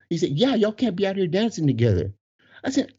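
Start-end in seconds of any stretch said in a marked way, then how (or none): 0.3-2.1 higher, insistent imitation; retold bouncer's refusal. Employee forbidding two men dancing together, raised insistence. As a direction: repeat the rule in the other guy's voice.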